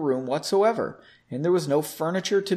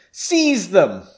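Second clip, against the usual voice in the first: louder, firm villain order; commanding; 3 semitones higher, 6 dB louder than usual. A narrator's reading. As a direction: command the soldiers to act. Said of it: "Frederick commanded".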